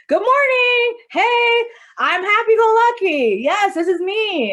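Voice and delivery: high, loud, bubbly put-on cheer; fake cheerful greeting. Walking into work faking cheer for a client, bubbly and loud. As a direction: mask the sadness with a bright hello. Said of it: "I literally am walking through that door like".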